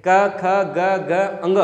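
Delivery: क, ख, ग, अंग drawn out one by one; letter-by-letter recitation. Shown as a demonstration. Teacher recites the consonant row, slow and separate. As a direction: recite क, ख, ग very slowly, ending on nasal अंग. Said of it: "जिसे अपन ग भी कह सकते हैं".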